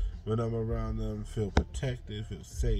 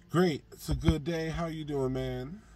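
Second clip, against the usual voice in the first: slightly higher, mock-cheery greeting; put-on cheerful; 4 semitones higher than usual. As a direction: fake a bright good-day act for coworkers. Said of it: "I do put on a nice face".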